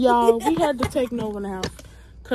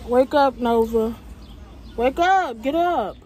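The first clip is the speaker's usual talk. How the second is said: calling out; 4 semitones higher, 5 dB louder, slower than usual. Real, not acted. Waking sleeping friends, calling out.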